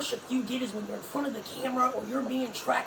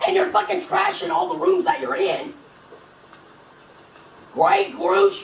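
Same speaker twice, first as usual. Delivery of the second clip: angry; 5 semitones higher, 7 dB louder than usual. Real, not acted. Ranting at the song's lyrics.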